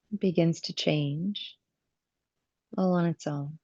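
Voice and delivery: calm yoga teacher guiding the breath, with long pauses; measured phrases, leaving space to breathe; guided breathing meditation. Real, not acted. Yoga teacher guiding students' attention to the breath, calm meditative delivery.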